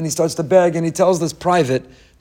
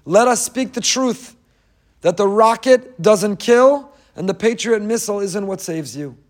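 solemn preaching; 4 semitones higher, slower than usual. Acted. Translating the quote solemnly.

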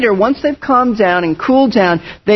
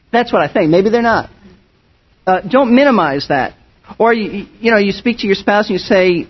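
ordinary talk

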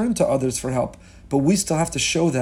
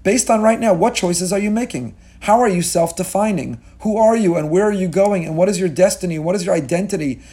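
voicing God; 3 semitones higher than usual. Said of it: "Hashem's gonna look at us right now and say".

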